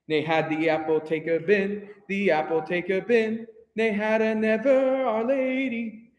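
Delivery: measured, chanted practice reading; spoken in rhythm. Shown as a demonstration. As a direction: recite it in strict time for the choir. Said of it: "we're about to speak this".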